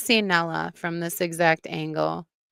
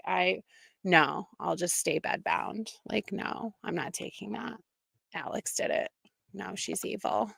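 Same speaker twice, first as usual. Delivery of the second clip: mock spiteful Jane; 7 dB quieter than usual. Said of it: "She would be like".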